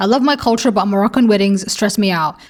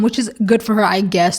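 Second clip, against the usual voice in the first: backhanded. Shown as a demonstration. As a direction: drop the pitch on I guess, make it sound backhanded. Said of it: "that sounded so backhanded".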